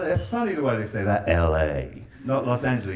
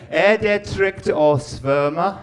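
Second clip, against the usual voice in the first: slow, louder "Er det trygt å svømme?" with each syllable spelled out; careful Norwegian again; 2 semitones higher, 5 dB louder, much slower than usual. Shown as a demonstration. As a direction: repeat the Norwegian phrase more emphatically. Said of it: "okay, I'll do it again".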